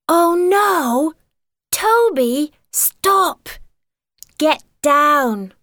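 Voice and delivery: loud, high cry at the dog; sharp alarmed yell at Toby; scolding shout. Acted. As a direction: stop the dog in a hurry. Dog jumps on the table.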